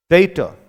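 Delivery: डेटा with long ei, "day-ta"; standard pronunciation. Shown as a demonstration. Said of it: "standard English में". (मानक उच्चारण डेटा)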